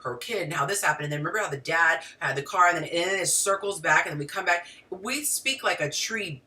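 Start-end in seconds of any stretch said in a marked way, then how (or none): 0.0-4.7 quick, run-on storytelling with no full stops; rambling woman's storytelling. Acted. Woman telling a friend a story that branches off, rambling. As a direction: rattle through it, looping from detail to detail. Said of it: "you know how a woman tells a story".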